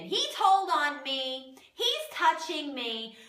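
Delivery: put-on whiny little kid tattling to mom; whiny tattling little sibling. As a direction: whine like a five-year-old telling on a sibling. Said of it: "like, five years old again".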